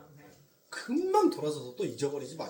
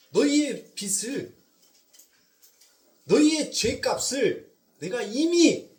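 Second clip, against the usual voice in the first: loud, slow and drawn-out divine declaration; climactic proclamation; 6 semitones higher, 9 dB louder, slower than usual. Acted. Preacher voicing God telling sinners their debt is paid, loud and slow. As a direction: proclaim it slowly with full force.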